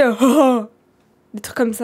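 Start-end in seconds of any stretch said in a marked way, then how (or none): 0.0-0.6 loud imitated "oh, oh"; imitated odd voice. Shown as a demonstration. Mother asking if the caller sounded like this, loud mimicked moans. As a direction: mimic the caller's noises, loudly. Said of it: "Est-ce qu'il, est-ce qu'il disait".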